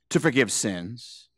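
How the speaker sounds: slow, soft whisper. Acted. Preacher reading scripture, dropping to a slow whisper. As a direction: breathe the words out slowly.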